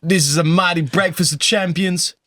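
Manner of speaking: lightly mimicked grand announcement; a recording artist. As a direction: present breakfast like a hyped-up celebrity.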